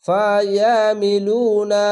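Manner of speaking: ইউসল্লু slow, the vowel held one beat; one-beat stretch. Shown as a demonstration. Teacher reciting for the class, slow stretched reading. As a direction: draw out ইউসল্লু slowly. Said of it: "এক আলিফ টেনে পড়বেন".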